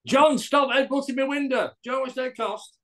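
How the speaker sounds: lightly voiced Frank scolding a headbutter; Frank complaining. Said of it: "everything you say to Frank".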